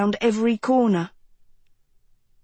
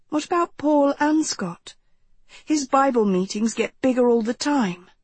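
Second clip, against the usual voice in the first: lightly voiced girl, pressing her point; a hint of an irritated young woman; insistent teenage girl; 3 semitones higher than usual. Narrator voices Katie in dialogue.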